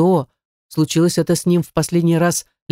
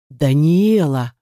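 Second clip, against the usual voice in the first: slow, drawn-out warning roar; roared name; much slower than usual. A narrator's reading. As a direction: bellow the name, stretching it. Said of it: "взревел Назар". (взреветь, протяжно)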